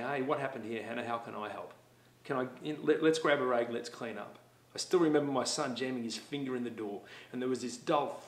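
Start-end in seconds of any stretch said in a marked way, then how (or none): 0.0-4.4 calm problem solving. Retold or imitated. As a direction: reassure the child and offer help. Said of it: "Problem solving would be just going over there and saying".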